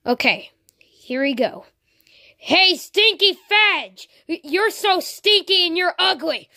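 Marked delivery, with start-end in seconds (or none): 2.4-6.5 playground taunt to provoke. Acted. Therapist taunts Ash as anger test.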